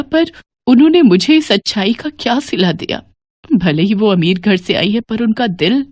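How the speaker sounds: a touch of regret, voice heavy; tearful apology. Acted. Mother-in-law asks her kind bahus for forgiveness, mildly tearful. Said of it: "फूट-फूट कर रो पड़ती हैं".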